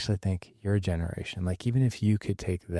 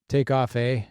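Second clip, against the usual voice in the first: mock Canadian accent; 4 semitones higher than usual. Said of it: "They were just like".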